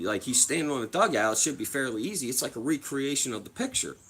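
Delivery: a sister nudging her brother, half-hammed; imitating his sister. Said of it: "my sister was like".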